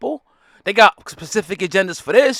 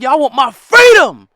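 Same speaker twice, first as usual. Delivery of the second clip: louder, impassioned plea for freedom; freedom-seeking slave; 4 dB louder than usual. Retold or imitated. A slave protesting to the others, loud and fed up. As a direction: demand freedom with growing heat. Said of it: "the other people's like".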